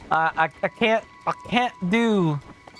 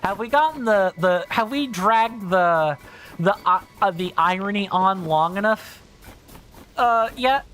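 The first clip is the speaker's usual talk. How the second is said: exercise a Southern drawl, none too convincingly; bad Southern drawl. Shown as a demonstration. Streamer jokingly demonstrating his roots, hammed-up Southern drawl. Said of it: "that was a really bad Southern drawl".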